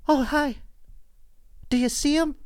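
high, soft creepy neighbor; high eerie neighbor voice. Retold or imitated. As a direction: sing it high like the odd neighbor in the dark. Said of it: "she is like".

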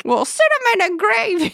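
gleeful high grizzled threat; old prospector voice. Acted. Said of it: "old prospector".

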